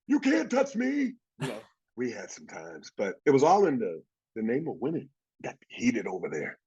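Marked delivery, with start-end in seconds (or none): 0.1-1.1 slow, high-pitched goading; taunting. Retold or imitated. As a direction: dare him, slowly. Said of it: "And he goes".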